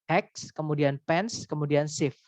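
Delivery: "Ex", "pens", "sieve" said slowly as separate beats; slow syllable-by-syllable demo; syllable split. Shown as a demonstration. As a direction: break expensive into its syllables. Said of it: "nah itu tiga suku kata".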